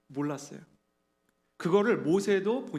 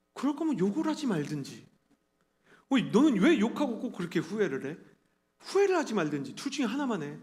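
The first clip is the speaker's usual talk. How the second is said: exasperated friend telling him off; mock reproach, lightly acted; retold scolding; 3 semitones higher than usual. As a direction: imitate a friend's nagging rebuke. Friends scolding his inconsistency.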